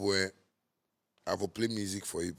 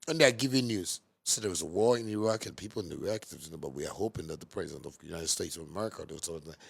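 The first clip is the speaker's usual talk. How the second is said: mock news read; 4 semitones lower, 3 dB quieter than usual. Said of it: "Can't you see C N N?".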